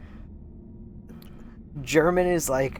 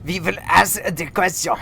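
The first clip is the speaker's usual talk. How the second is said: loud, higher German interrogator impression; raised-voice comic German accent; mock German accent; 5 semitones higher, 6 dB louder than usual. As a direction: put on a stern, hammy German accent. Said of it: "do it as a German".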